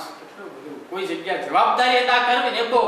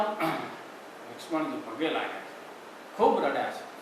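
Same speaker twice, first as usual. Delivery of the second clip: hushed, slow narration; 4 semitones lower, 8 dB quieter, slower than usual. A narrator's reading. Lakshman bows, weeping scene.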